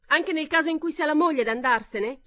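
high, loud retort; loud heckle. A narrator's reading. Heckler retorting to Pamela, loud. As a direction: fire it back.

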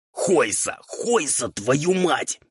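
high, raspy exasperated cursing; ghoul hissing. A narrator's reading. Ghoul curses devil mashing eggshells, hissing. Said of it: "зашипел на него упырь".

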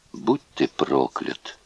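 low, soft, slow curse; whispered. A narrator's reading. Doomed prisoner to his executioner, whispered. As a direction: whisper the curse with last strength. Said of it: "прошептал Люббе".

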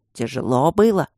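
nosy confidential question, voiced out loud; conspiratorial. A narrator's reading. Guardian prying into the student's exam, conspiratorial. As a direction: ask like a fellow plotter. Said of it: "заговорщическим тоном спросил Аристарх".

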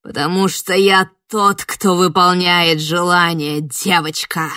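loud slow growl; menacing bark at the girl; growled reveal. Acted. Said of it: "рявкнуло то". (угрожающий рык)

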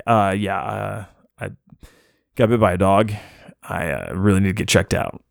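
calm, hesitant request with long pauses. Retold or imitated. Bitten man calmly asking at the hospital counter to get checked. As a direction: keep it calm and halting, as calm as you can. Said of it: "Now, I'm being very calm".

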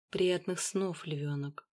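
soft, tender breathy goodnight. Acted. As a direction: breathe it out lovingly. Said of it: "ласково выдохнул я".

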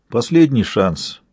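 slow cold threat; menacing warning. Acted. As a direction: warn him slowly, coldly. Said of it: "предупредил я мальчишку". (медленно, с угрозой)

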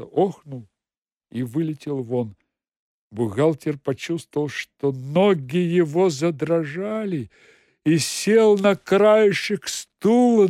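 ordinary delivery, nothing marked

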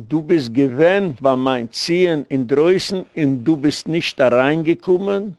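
slow, measured retelling of a rebbe speaking; lightly voiced rebbe, each phrase spaced out; rebbe's solemn words. Acts out the rebbe's dream words. (פּאַמעלעך, ווי דער רבי רעדט)

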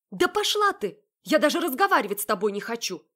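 high, loud furious brush-off; angry retort. Acted. Heroine snapping back at her sister, furious.

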